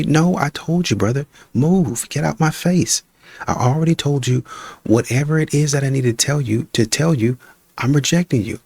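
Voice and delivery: woman telling a stranger to back off, fed up; woman rejecting him. Acted.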